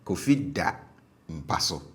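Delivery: DA kept low in "Kofi da mpa so"; stative low tone. Shown as a demonstration. Teacher repeats the stative example, DA low. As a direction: step down onto DA, pause, then "mpa so". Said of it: "on the stative verb was low".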